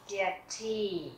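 Tee with a long, held E. Shown as a demonstration. Teacher showing double vowels are long, long-E demo. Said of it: "luôn luôn đọc dài".

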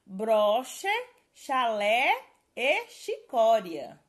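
each example word given slowly and loudly; careful spelling list. Shown as a demonstration. Teacher to students, spelling examples dictated clearly. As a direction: lay out every word clearly for the class. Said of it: "Preste bastante atenção na regrinha".

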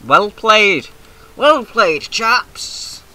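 high, loud hammed-up British officer praise; jolly old-chap cheer; mock posh congratulation. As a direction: toast the chaps like a posh squadron leader.

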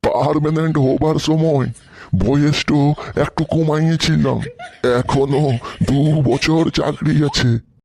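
প্রবীণ সহকর্মী. Acted. (খানিকটা নিচু গলায় বয়স্ক সহকর্মী)

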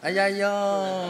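slow sing-song 哎呀呦; drawn-out aiyayo. Acted. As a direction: stretch 哎呀呦 out like a singer. Drawn-out comic exclamation.

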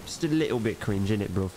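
playful light Cockney again; mock London accent. Streamer teasing viewers in a light London accent. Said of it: "Speaking in accents".

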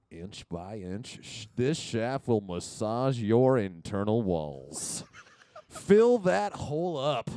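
slow, low sales pitch; announcer voice. Pretend. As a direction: sell it like a TV ad voiceover. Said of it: "announcer voice for this company".

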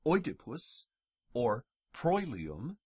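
Oedipus and proilium with "oy"; Oedipus, proilium with an oy glide. Shown as a demonstration. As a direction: say Oedipus as "oy-dipus". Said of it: "pronounced oi".

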